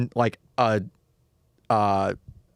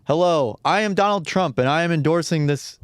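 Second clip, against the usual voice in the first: lightly imitated AI voice, a bit raised; Donald Trump deepfake voice; 5 semitones higher than usual. Retelling a weird ad heard at work, lightly mimicked deepfake. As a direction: read it like a fake endorsement, higher than usual. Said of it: "deep fake A I voice that was like".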